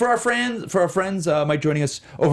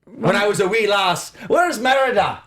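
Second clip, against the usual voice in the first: Scottish accent; 2 semitones higher than usual. Shown as a demonstration. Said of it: "I've never done Scottish before".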